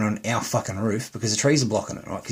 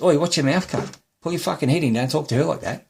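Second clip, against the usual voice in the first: higher-pitched indignant re-enactment; heated retold rebuke, pitch raised; retold telling-off; 5 semitones higher than usual. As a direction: re-enact warning someone off your partner. Retold telling-off, defending partner.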